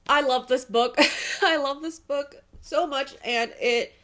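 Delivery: loud laugh through tears, slowing; gush, half laughing, half crying; loud teary gush over the book; emotional. Real, not acted. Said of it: "I'm an emotional reader".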